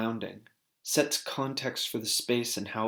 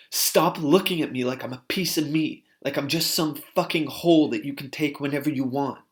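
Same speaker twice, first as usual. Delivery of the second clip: retold rage; 3 semitones higher, 4 dB louder than usual. Housemate rages at him.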